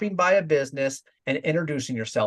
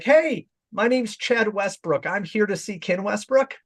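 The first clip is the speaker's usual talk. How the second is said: higher, slow, overly formal; stiff formal intro; 6 semitones higher than usual. Shown as a demonstration. Son formally announcing himself at his dad's company. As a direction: introduce yourself like a stranger. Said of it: "I'm never gonna do that".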